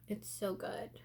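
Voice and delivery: soft unvoiced whisper. Real, not acted. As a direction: breathe it as a secret. Whispered aside praising product.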